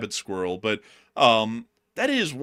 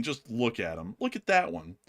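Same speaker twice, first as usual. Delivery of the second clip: ordinary talk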